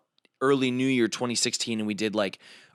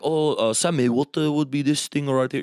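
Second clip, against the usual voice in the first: imitating Vigo; 4 semitones higher, 4 dB louder than usual. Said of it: "and was like".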